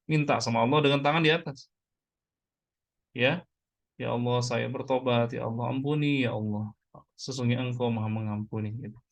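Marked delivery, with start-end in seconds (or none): 4.0-8.7 subdued pleading, sinking away at the close; repentance prayer. Shown as a demonstration. Preacher models asking God for forgiveness, subdued prayer.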